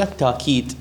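"التاكيد" with a long aa, no glottal stop; hamza turned alif. Shown as a demonstration. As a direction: say "التاكيد" as at-taakid. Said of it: "القراءة الثالثة".

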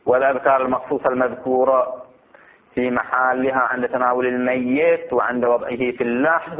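measured Arabic reading for students; formal text reading. Acted. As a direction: read the text out phrase by phrase. Reads the book text aloud.

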